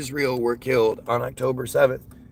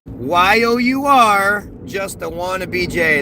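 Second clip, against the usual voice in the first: mocking read; 2 semitones higher, 4 dB louder, slower than usual. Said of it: "the smart person in the comments just said".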